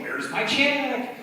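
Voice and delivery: high, slow, pleading; demanding customer voice. Acted. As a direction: ask it like an impatient client. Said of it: "an even worse voice like that".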